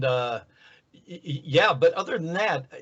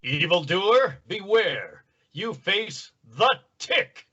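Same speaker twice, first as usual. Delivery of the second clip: grandiose superhero challenge, raised pitch; the Tick; 3 semitones higher, slower than usual. Acted. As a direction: announce yourself with slow heroic pomp. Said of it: "you get the superhuman Tick".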